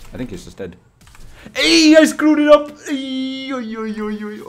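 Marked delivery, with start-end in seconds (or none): 1.6-4.4 high yelling after a blunder; frustrated shout. Real, not acted. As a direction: cry out at the mistake. Botches the play live.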